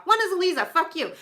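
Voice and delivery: mock insult to a friend; playful taunt. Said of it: "I'm flipping her off".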